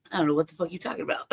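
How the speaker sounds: fast, laughing brush-off; laughing through it. Retold or imitated. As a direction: rattle it off while laughing. Retelling her dismissive answer.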